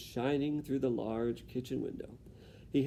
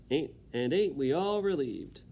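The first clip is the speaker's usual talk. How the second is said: sarcastic; 2 semitones higher, 4 dB louder than usual. Acted. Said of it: "Cook's being a little sarcastic".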